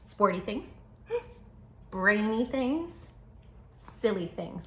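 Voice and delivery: lively storybook narration for little listeners; reading to children. Acted. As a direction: tell it like a bedtime picture book. Reads picture book aloud.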